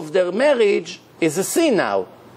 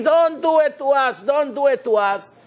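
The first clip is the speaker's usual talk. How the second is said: pleading father; 5 semitones higher than usual. Retold or imitated. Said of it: "my father went on his knees begging me".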